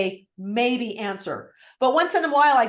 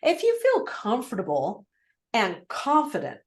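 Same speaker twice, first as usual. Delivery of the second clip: friendly and low. Shown as a demonstration. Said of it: "I'm gonna say it friendly. I'm gonna say it low".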